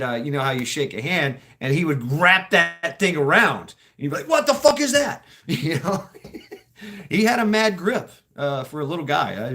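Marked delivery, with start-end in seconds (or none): 4.3-5.2 high, loud startled outburst; shocked disbelief. Retold or imitated. Shaking hands and feeling the extra finger, shocked outburst. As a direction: blurt it out weirded out by the handshake.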